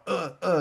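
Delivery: high mock grunts of pain, imitating a man being shocked; lightly acted pained grunting. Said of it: "he's, like, feeling pain".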